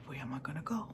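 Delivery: unvoiced, soft inner worry; whispered thought. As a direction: breathe it as a scared private thought. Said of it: "And I'm thinking".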